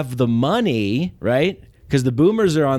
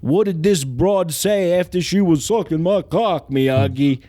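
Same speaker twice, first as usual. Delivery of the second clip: Andrew Dice Clay; 3 semitones higher than usual. Retold or imitated. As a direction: drag it out like a crude loudmouth. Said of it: "Andrew Dice Clay is the Karate Kid".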